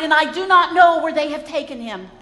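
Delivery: a loud, anguished cry of loss; Mary crying out to the disciples, anguished and loud. Acted. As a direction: call it out in distress over the empty tomb. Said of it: "she cried".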